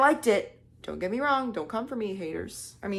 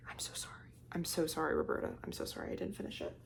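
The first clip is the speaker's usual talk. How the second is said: sheepish apology; 2 semitones lower, 8 dB quieter, faster than usual. Real, not acted. Apologizing to absent author.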